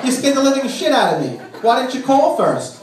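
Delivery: startled angry wife. Retold or imitated. Wife catching him at home, a mild mock startled scold. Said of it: "Red Rum herself".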